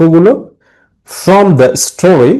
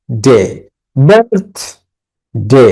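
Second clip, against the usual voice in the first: ডে, বার্থ, ডে as separate beats, বার্থ raised; syllable by syllable; much slower than usual. Shown as a demonstration. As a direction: stress বার্থ, leave a gap before ডে. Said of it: "বার্থ বলার সময় কি হাততালি দিবে".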